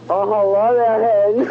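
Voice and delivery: sultry Scottish flirt; sexy Scottish accent. Shown as a demonstration. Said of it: "Scottish and sexy".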